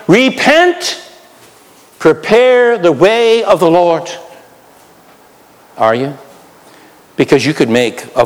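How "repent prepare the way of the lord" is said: high-pitched prophetic proclamation; crying out. Acted. Preacher modelling a voice in the wilderness, crying out. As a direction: cry it out, stretching the words.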